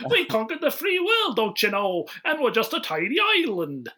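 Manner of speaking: high, pompous fake British voice; mock English accent. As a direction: puff it up like a proud Brit. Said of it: "All English accents".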